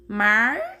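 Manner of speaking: "Mártir" in two separate beats, the first long and loud; syllable by syllable. Shown as a demonstration. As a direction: count out "Mártir" with a gap after "Már". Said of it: "vamos usar essa regrinha".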